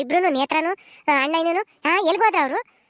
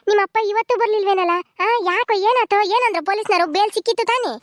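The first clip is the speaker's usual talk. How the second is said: higher-pitched, worried string of questions; anxious questioning; 4 semitones higher than usual. Acted. Asking the boy about his father's bail, anxiously. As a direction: press for news, pitch raised with worry.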